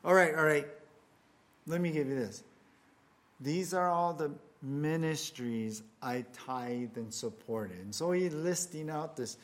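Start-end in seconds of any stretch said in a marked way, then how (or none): 0.0-7.8 exasperated man. Acted. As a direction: play a man overwhelmed by how tough it is. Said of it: "The man's like".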